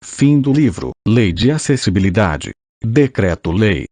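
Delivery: robotic synthesized voice reading. Real, not acted. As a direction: computer text-to-speech voice. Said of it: "com voz sintetizada".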